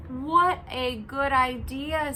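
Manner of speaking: a hint of pleased Zog; mild eager Zog; grateful dragon. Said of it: "said Zog".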